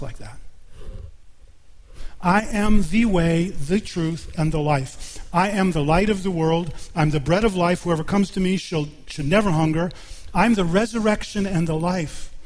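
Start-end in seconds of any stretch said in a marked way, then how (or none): 2.2-12.3 raised, ringing pulpit proclamation; declaiming scripture. Acted. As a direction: proclaim each I am line boldly. Declaims Jesus' sayings from scripture.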